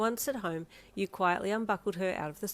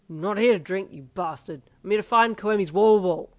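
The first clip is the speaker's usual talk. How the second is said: angry shout; 11 dB louder than usual. A narrator's reading. Darby shouting at teammates.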